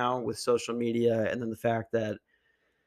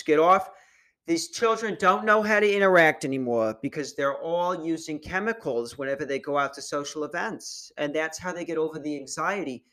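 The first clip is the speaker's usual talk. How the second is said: annoying lady voice; 3 semitones higher than usual. Retold or imitated. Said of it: "she sounds like, uh, super annoying".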